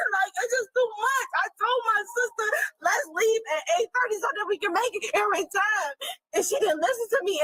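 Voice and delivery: tearful, exasperated venting; real weepy complaint; overwhelmed. Real, not acted. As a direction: cry it out in frustration. Overwhelmed, crying about sister.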